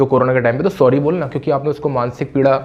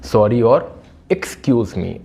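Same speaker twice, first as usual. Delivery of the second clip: each word drawn out slowly for the class; slow teaching demo; 2 semitones lower, much slower than usual. Shown as a demonstration. Teacher introducing two English words, said very slowly. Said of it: "बताने आया हूँ मैं आपको".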